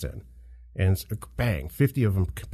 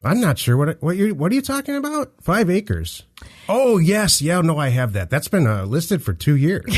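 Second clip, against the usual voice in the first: sleazy realtor; 9 semitones higher, 4 dB louder than usual. Pretend. Realtor skit, agent on phone.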